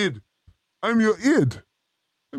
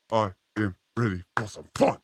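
mock hype voice; 6 semitones lower, 6 dB quieter than usual. Hyping up before the fun segment.

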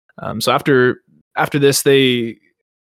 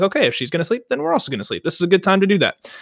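mock elves; 8 semitones higher, faster than usual. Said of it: "they're like".

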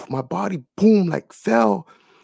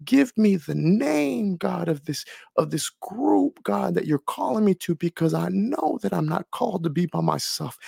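fervent pleading prayer; 4 semitones higher than usual. Retold or imitated. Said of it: "on the altar crying".

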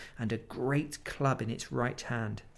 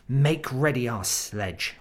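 commanding; 6 dB louder, slower than usual. Acted. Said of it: "ordered the witch".

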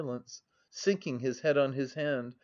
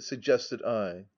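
usual speaking voice

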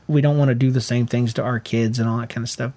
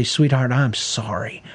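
tender apology; 2 semitones lower, 3 dB quieter, slower than usual. Retold or imitated. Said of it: "and I'll say".

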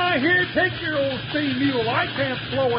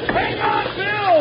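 raised, urgent warning cry; alarmed call; 4 semitones higher, 4 dB louder, slower than usual. Acted. Jingles warns Bill on the speeding train, alarmed. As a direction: call out over the racket.

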